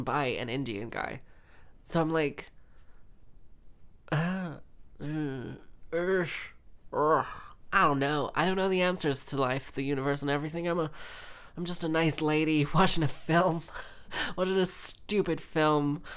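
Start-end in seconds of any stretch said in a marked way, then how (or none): 4.1-7.3 string of short, separate grunts of doubt; uncertain groans. Acted. Wordless reaction to questionable film writing. 11.6-16.0 amused self-mockery broken by giggles; laughing. Real, not acted. Laughs at own helplessness over film.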